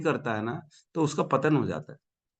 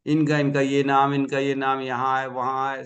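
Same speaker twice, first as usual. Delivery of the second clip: genealogist reciting. Retold or imitated. Temple genealogist reading ancestors from his book to visitors, reciting. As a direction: run through names in a level, running list. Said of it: "पोथी निकाल के नहीं खड़े हो जाते".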